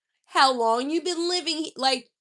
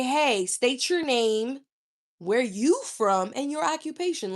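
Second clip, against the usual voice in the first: lightly voiced, deliberate introduction; model pickup line. Shown as a demonstration. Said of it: "come up to a woman and say".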